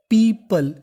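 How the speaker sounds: "पीपल" as "pee-pul", neutral second vowel; teacher's model "पीपल", "pee-puhl"; taught pronunciation. Shown as a demonstration. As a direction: say "पीपल" with an unrounded schwa before the l. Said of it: "इसे पढ़ते हैं हम लोग".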